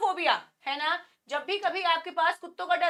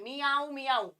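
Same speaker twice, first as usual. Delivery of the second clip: cat meow. Shown as a demonstration. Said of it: "मियाऊ है वो ऐसे होता है".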